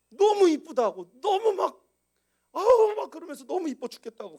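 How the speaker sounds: put-on loud high gushing over the baby; gushing parents. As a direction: squeal how cute it is, hammed up. (아기가 너무 예쁘다고 높고 크게 호들갑)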